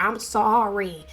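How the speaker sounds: imitated country twang, apologizing to a daughter. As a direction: lightly put on a country mother's accent. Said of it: "in her country voice".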